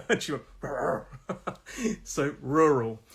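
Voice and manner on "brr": short rolled "brr" like a dog; imitated dog growl. Teacher retelling the dog's answer, imitated growl.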